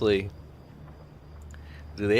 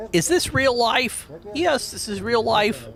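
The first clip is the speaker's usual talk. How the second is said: put-on much higher, slower, dazed kid voice; laughing gas kid; 10 semitones higher, slower than usual. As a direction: imitate the woozy kid from the dentist video. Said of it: "Did you ever see that kid who has done that?".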